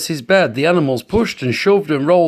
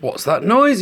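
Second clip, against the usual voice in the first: squeaky mouse; 6 semitones higher than usual. A narrator's reading. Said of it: "he squeaked".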